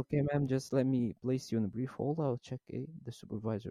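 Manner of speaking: slow, courteous hold request; calm agent putting her on hold; slow polite call agent. Retold or imitated. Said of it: "فبعدين قلت لها".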